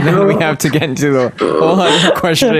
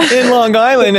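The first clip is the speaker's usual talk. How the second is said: mock talk show host, pitched up; talk show announcement; 7 semitones higher than usual. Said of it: "like, a talk show and you're like".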